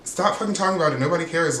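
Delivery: high, fed-up snap; exasperated Mary. Retold or imitated. Mary telling Britt to drop the Jared stuff, high and fed up. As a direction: shut it down, she's sick of hearing it. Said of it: "but she's like".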